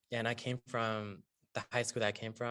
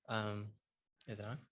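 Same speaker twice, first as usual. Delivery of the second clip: barely audible, mic too far; speaking too softly; too quiet; 6 dB quieter than usual. Real, not acted. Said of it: "Yes, but talk louder".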